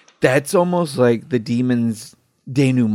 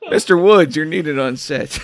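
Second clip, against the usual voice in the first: calling out; 3 semitones higher, 4 dB louder than usual. Acted. Plays crew member calling the actor.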